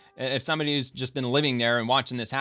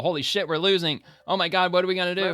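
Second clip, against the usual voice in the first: mock panic; 6 semitones higher than usual. Streamer imitates a government admitting it's losing, mock panic. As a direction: fake a government freaking out. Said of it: "not gonna directly tell the people".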